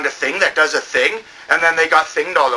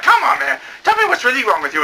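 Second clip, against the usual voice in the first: raised mock girl voice; the girl pleading; 7 semitones higher than usual. Girl pressing him, lightly higher. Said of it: "and she's like".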